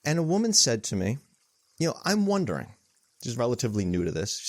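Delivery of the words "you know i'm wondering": imitating a tentative, curious questioner, voice lifted high; curious questioning. Newcomer asking the meditation teacher a question, curious. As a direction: gently wonder aloud in a higher voice. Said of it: "she was, she was asking".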